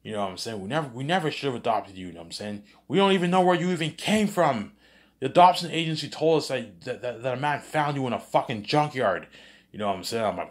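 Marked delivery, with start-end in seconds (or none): 0.6-2.1 mock parent yelling. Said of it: "they're yelling at me". 2.9-9.3 hammed-up fury at the son; mock parent yelling. Parents reveal the junkyard story, high hammed-up yelling. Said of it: "they're yelling at me".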